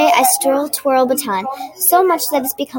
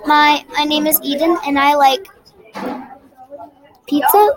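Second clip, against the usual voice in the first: hesitant, with a stammered start and long pause; nervous; 3 semitones higher than usual. Acted. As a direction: falter through a shy self-introduction. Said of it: "my throat closed up".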